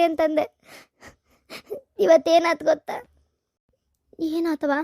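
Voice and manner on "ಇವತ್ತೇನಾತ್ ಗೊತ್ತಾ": crying. Acted. Daughter comes home crying.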